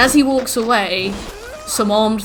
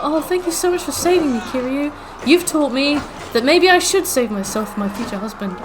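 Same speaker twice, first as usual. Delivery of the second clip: mock grateful girl; 5 semitones higher than usual. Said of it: "And then she's like".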